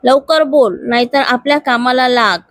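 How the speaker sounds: understated angry order to the employee; mild mock shout. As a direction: hurry her along, lightly snapped. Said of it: "परत तिच्यावर ओरडला".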